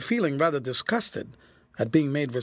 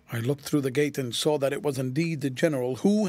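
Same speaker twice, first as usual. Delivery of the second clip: plain reading voice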